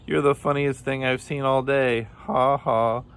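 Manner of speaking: high, gleeful mock laughter; laughing. A narrator's reading. Kangaroo mocks soaked Rabbit, high laughing taunt. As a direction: tease gleefully into a spoken laugh. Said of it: "he laughed".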